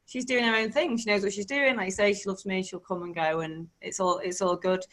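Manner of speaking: quiet easy voice trusting money to come and go; soft, calm trust. Retold or imitated. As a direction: let it go easily. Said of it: "You just be like".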